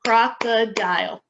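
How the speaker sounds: crocodile drawn out slowly syllable by syllable; syllables pulled apart. Shown as a demonstration. Teacher modelling syllables, slow and segmented. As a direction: sound out crocodile for students.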